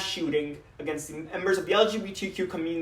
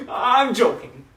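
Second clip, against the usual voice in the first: chuckling and playful; joking; 2 semitones higher, 5 dB louder than usual. Acted. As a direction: laugh it off as a joke. Laughs off joke about mama.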